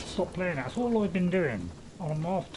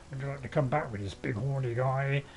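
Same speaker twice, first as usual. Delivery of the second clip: mock seductive stag; 3 semitones lower than usual. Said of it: "Although I don't think they speak like that".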